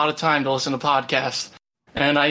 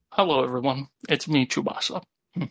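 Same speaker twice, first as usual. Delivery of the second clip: ice in mouth. Real, not acted. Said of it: "I have an ice cube in my mouth right now".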